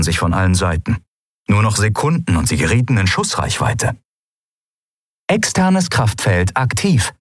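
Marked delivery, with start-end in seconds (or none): 5.3-7.1 slow, mechanical ship announcement; ship computer. Acted. The ship reporting to the crew, slow and mechanical. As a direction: report it like a machine. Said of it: "meldete die Sternenreiter".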